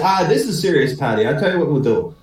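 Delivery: measured Irish brogue; Irish accent. Acted. Young Paddy says this is serious, Irish accent. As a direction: explain the plan as an Irishman. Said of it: "try out my Irish accent".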